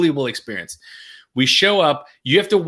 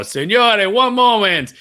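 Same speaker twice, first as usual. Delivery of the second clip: excited Italian waiter; 8 semitones higher, 5 dB louder, much slower than usual. Retold or imitated. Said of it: "He's like".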